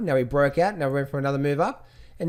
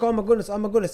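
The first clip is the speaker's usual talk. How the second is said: higher-pitched imitation of panicky traders; mock freak-out; 6 semitones higher, faster than usual. Trader fixating on the pullback, mock freaking out. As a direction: act out a mild, fretful panic. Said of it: "they're freaking out because they're like".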